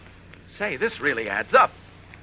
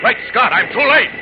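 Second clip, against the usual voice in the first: dismayed cry; 6 semitones higher, 6 dB louder than usual. Acted. Hero realizes failure.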